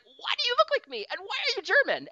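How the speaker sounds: high squeaky bewilderment; baffled girl. Retold or imitated. Girl meeting her German double, high mock bafflement. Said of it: "And she's like".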